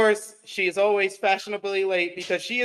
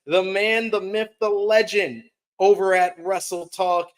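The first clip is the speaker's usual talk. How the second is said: higher, drawn-out ring-style name reveal; guest announcer intro; 3 semitones higher, slower than usual. Real, not acted. Host introduces wrestling media guest to viewers, announcer intro. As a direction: build up the guest's grand entrance.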